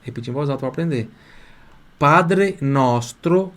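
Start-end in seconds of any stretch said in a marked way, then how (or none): 2.0-3.5 very slow Italian, word by word; deliberate, drawn-out teacher's dictation; piece by piece. Shown as a demonstration. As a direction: model each word slowly for repeating. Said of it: "Eu vou falar um pedacinho".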